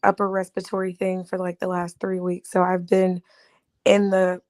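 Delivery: hoarse from a chest cold; raspy, sick voice. Real, not acted. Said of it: "I'm sorry for my raspy voice".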